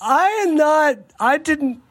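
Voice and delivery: speaking with a swollen mouth after surgery; thick, swollen-mouthed words. Real, not acted. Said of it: "my mouth is so swollen that I can't talk".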